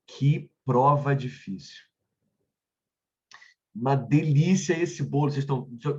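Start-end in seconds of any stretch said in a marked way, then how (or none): 0.1-1.9 exclaiming. Shown as a demonstration. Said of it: "Ele vai exclamar alguma coisa". 3.7-5.3 exclaiming. Shown as a demonstration. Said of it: "Ele vai exclamar alguma coisa".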